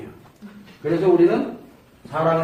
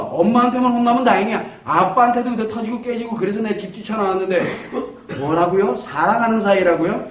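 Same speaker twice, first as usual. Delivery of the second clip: put-on teen protesting; 3 semitones higher than usual. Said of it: "아이들이 똑같은 말로 합니다".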